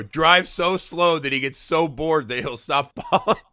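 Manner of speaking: slow, laughing through the plan; laughing explanation. Retold or imitated. Retelling his stupid plan to his buddy, laughing. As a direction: explain the dumb plan while cracking up. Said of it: "I go".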